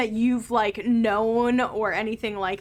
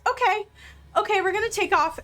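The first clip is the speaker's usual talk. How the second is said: higher, fast flustered "okay, okay"; flustered captain; 9 semitones higher, much faster than usual. Acted. Priestess hurrying everyone aboard as the cliff collapses, flustered. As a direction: rush the words out as the cliff falls. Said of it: "and she goes".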